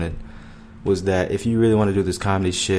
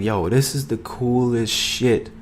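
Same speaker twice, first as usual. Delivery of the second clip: hooked excitement; 4 semitones higher, slower than usual. Retold or imitated. Quoting his hooked self.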